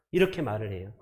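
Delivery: ordinary delivery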